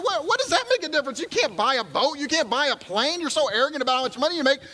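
high, worked-up scolding; a frightened man ranting at his calm friend; frantic worried castaway; panicked exasperation. Acted. Worried man berates the other.

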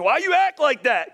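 drawn-out parental griping, acted; exasperated parent. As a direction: scold the kids in mock bewilderment. Parent blaming kids, acted.

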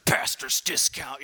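grumbling low, whispered mutter; muttering under breath. Retold or imitated. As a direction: sulk it under your breath. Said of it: "muttering under his breath".

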